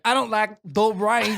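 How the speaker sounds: slow put-on grumble; lightly voiced grumpy guest; mock grumpy voice. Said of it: "you're like".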